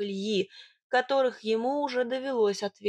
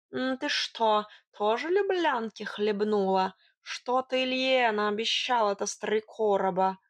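lightly voiced cat with a questioning lift; wily tomcat, accusing. Cat suspecting his mistress drank love potion, lightly accusing. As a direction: quiz her as a nosy cat.

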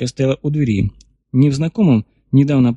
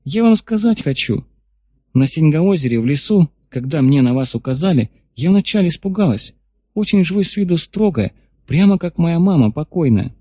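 put-on girl voice; 4 semitones higher than usual. Girl speaking, raised pitch.

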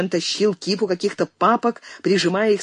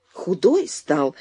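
с жалостью; much slower than usual. Acted. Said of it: "говорила Сельма с жалостью".

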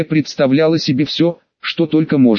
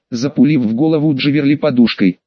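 ordinary delivery

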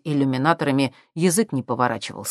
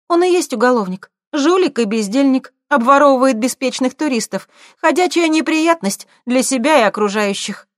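high loud female voice; Galina's voice; 10 semitones higher, 7 dB louder than usual. A narrator's reading. Галина warning about the thief, high and scornful. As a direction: speak as a scornful woman.

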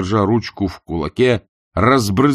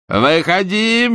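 urging shout; 11 semitones higher, 4 dB louder, much slower than usual. A narrator's reading. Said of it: "торопил прокурор".

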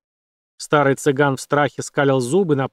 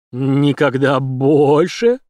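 half pleading half threatening; 4 dB louder, much slower than usual. A narrator's reading. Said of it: "голосом наполовину просительным, наполовину угрожающим".

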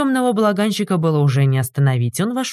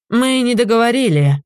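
higher indignant retort; angry; 7 semitones higher than usual. A narrator's reading. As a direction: glare and snap back. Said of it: "гневно вытаращился он". (гневный возглас)

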